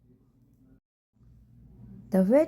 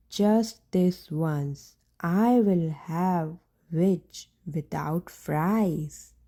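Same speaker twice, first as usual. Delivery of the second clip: menacing dragon; 3 semitones lower, slower than usual. Acted. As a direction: savour each word like a predator. Dragon gloats over his prey.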